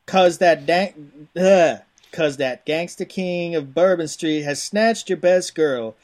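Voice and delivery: hammy Cajun game-box hype; punchy back-of-the-box read in a rough Cajun accent; put-on Cajun accent. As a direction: read it like a Cajun swamp-adventure trailer. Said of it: "There's some Cajun".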